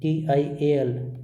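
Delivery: टीआईएएल spelled out slowly, letter by letter; slow spelling. Shown as a demonstration. Teacher slowly spelling टीआईएएल for the class. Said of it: "नीचे वाले दो शब्दों में देखो".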